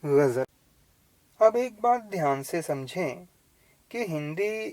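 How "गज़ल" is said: गज़ल with a throaty gh and a z; correct ghazal. Shown as a demonstration. Teacher giving the correct form, गज़ल with throaty gh. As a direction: breathe the gh in गज़ल, buzz the z. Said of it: "इसका सही उच्चारण है".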